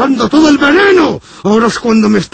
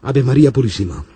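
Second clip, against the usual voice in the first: liturgical greeting; 10 semitones lower, 4 dB quieter than usual. Acted.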